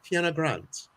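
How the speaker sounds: too-posh British rendering of the name; American's mock posh British; posh British accent. Shown as a demonstration. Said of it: "a British accent, um, Sarah tells me I'm too posh".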